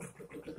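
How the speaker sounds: soft breathy gulp noises, barely voiced; gulping sounds. Shown as a demonstration. Teacher showing students a drinking noise on the phone, whispered gulps. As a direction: mimic swallowing a drink, quietly. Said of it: "Sambil minum juga gluk".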